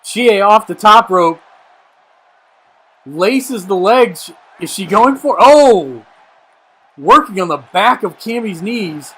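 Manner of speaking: live ringside play-by-play; wrestling commentator. Acted. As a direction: call each move as it happens. Play-by-play call of the match.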